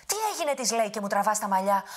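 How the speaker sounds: high, loud angry demand; angry giant. Acted. Woken giant angrily confronts the grandmother. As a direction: snap awake and demand an answer. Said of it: "ξύπνησε θυμωμένος".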